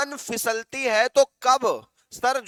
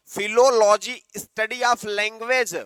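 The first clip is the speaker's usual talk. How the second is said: slow and a bit louder; slow answer; 4 dB louder, much slower than usual. Shown as a demonstration. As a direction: stress the definition slowly. Giving the answer emphatically.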